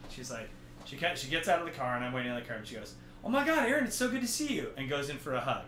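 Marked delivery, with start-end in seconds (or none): 3.2-4.7 high-pitched imitation of a delighted date; mock-gushing hello, pitched up; gushing greeting. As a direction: act out an excited greeter. Date's greeting acted in story.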